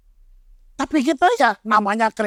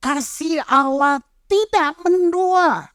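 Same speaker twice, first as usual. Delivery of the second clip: scripture reading; slower than usual. Acted. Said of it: "The Passion Play".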